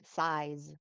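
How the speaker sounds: "size" ending in a buzzing z; voiced z ending. Shown as a demonstration. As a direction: let the final s of "size" vibrate. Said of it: "the sound of an S at the end".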